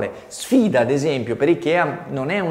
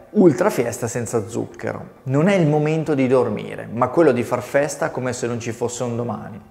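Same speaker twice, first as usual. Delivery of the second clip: ad copy read. Acted. Teacher reading Monster's website copy to students, punchy ad read. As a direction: sell the party flavour with a challenge.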